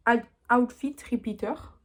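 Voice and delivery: slow, attempted English accent on the shade name. Real, not acted. Vlogger reads a shade name to viewers, self-mocking English accent. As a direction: say it carefully in French-tinged English accent. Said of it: "avec mon magnifique accent anglais".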